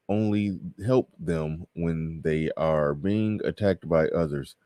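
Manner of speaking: word by word, drawn out; slow, halting read. Real, not acted. Streamer sounding out a viewer's super chat, slow. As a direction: read it slowly, as if the sentences were broken. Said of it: "I read it slow".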